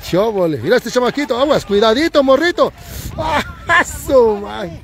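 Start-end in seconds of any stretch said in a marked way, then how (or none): 3.2-4.8 sudden high-pitched startled cry; startled exclamation. Real, not acted. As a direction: blurt it out, caught off guard. Startled by a reckless kid.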